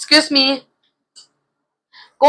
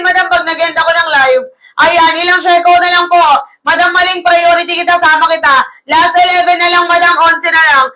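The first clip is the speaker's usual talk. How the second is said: raised pitch, insistent live-selling push; heated-sounding urging; 3 semitones higher than usual. Real, not acted. Live seller hurrying viewers to check out, heated-sounding urging. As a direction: urge them insistently, pitched up, without real anger. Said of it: "ba't ka galit?".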